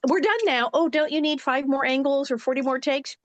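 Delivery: high, breezy done-and-moving-on; brisk director voice. Retold or imitated. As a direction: chirp it, all business. Imitating Michael Landon wrapping takes.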